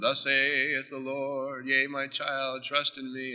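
slow, solemn mock prophecy; mock prophet voice. Preacher parodying a prophet's pronouncement, slow and solemn. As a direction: intone it slowly like a self-styled prophet. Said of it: "the prophet comes and".

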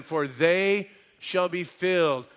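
"they" held out and leaned on; stress on THEY. Shown as a demonstration. Preacher quoting a beatitude, stress on THEY. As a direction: lean on "they", stretching it slowly. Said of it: "it's emphatic".

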